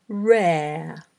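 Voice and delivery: long drawn-out word, carefully dictated; slow dictation. Shown as a demonstration. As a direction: stretch the word out for learners writing it down. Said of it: "read ten words aloud slowly".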